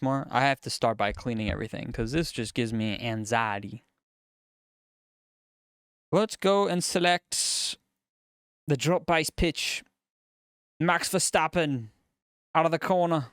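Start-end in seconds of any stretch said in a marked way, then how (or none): 6.1-13.3 slow, pitched-up race announcer. Pretend. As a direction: call it like a sports commentator. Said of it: "I've been practicing my announcer voice".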